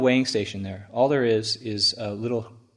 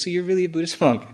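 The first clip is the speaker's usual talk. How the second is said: laughing disbelief; 8 semitones higher, 4 dB louder, faster than usual. Retold or imitated. Policeman asks, speaker laughing.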